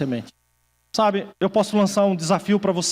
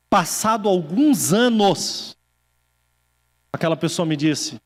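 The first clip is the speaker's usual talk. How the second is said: ordinary delivery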